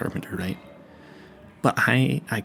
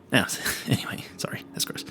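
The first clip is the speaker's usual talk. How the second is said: whispered aside; 6 dB quieter than usual. Acted. Embarrassed aside about neighbors.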